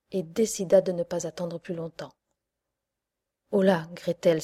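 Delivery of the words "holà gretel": loud call; witch crying out. Acted. Witch losing patience with Gretel, loud call. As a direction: call her sharply across the house. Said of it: "s'écria-t-elle".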